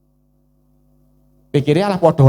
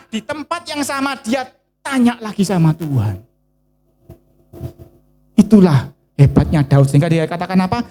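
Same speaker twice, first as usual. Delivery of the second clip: usual speaking voice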